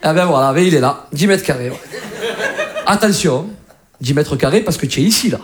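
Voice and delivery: put-on chummy Marseille-accented flat viewing; Marseille landlord. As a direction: show the place off in Marseille accent. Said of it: "un mec à Marseille te loue un dix mètres carrés".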